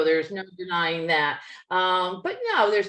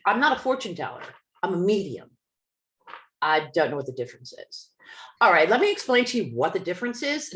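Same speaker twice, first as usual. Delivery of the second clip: mildly indignant retelling, faster at the end; faster than usual. Retold or imitated. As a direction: correct her with a touch of offence. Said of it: "now I'm getting very indignant".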